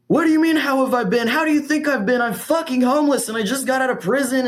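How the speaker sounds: high, indignant mock yell; imitating a furious man just out of prison; retold angry outburst. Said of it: "he's, like, yelling at her".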